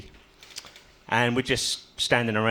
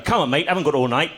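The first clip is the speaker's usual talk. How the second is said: higher-pitched acted nagging; impatient pub bloke; 4 semitones higher, 4 dB louder than usual. Bent-over bloke waiting for the smack, impatient urging. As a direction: hurry him along impatiently. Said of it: "He's going".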